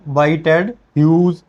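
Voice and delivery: "बाई टेड ह्यूज" repeated as a reading model; pronunciation demo. Shown as a demonstration. Teacher repeating the poet's name for students, "बाई टेड ह्यूज" as a pronunciation demo. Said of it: "क्या पढ़ना है?".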